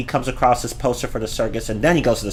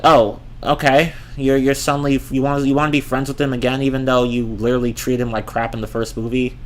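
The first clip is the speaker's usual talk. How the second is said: mocking quote. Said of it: "and I'm just like".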